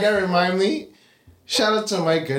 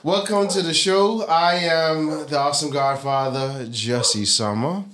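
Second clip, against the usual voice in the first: drawn-out podcast host introduction; slow, deliberate announcer-style welcome; show intro; slower than usual. Acted. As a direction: open the show grandly, stretching out the names.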